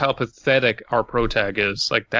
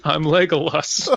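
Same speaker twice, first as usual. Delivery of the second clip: laughing; 4 semitones higher than usual. Pretend. Laughing, acted as robber.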